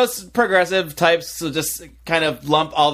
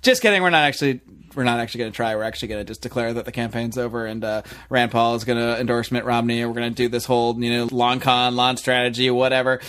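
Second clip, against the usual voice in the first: low monotone mock announcement, softening midway; dismissive mock announcement; 5 semitones lower than usual. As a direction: recite their excuse in a low, unimpressed drone. Mimics the campaign dropping out.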